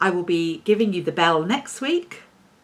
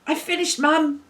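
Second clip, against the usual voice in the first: announcer voice; 7 semitones higher than usual. Acted. Announcing the bell segment title.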